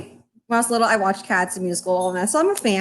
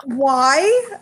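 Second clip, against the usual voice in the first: exasperated disbelief; 4 semitones higher than usual. Retold or imitated. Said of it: "I was like".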